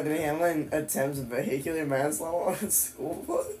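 baffled question, lifting on "bus"; puzzled reading. Real, not acted. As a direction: read it out in growing disbelief. Reads a shocking headline, puzzled.

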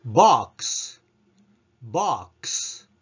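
ボックス with the クス whispered, no voice; whispered ending. Shown as a demonstration. Teacher modelling ボックス for students. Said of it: "クスの部分は ... ひそひそ声でクス".

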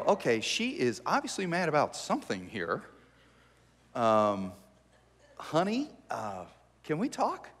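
soft and careful, easing into it. Pretend. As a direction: talk her down gently.

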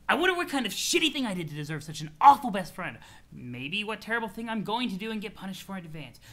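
mild mock tirade, sinking at the end; a touch of sarcastic exasperation; irritable troll, ranting. Troll bemoans his awful best friend, mildly exasperated rant.

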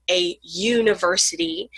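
"university" begun with a clear Y glide, "yoo"; Y sound in university. Shown as a demonstration. Teacher showing why university takes "a", clear Y sound. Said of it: "you making a Y sound".

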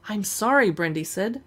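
steady, even storybook reading; story narration. Acted. Streamer reading a novel's first page to viewers, narrating. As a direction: read the page aloud like an audiobook.

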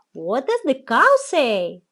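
hushed whispered question. Acted. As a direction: whisper it like a secret.

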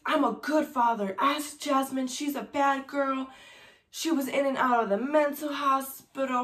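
imitating a man loudly justifying himself; insistent retold pleading. Husband protesting to the officers across the room, insistent.

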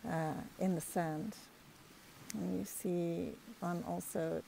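unhurried meditation voice with long pauses between phrases; guided meditation. Real, not acted. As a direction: guide them calmly, phrase by phrase, leaving space to breathe.

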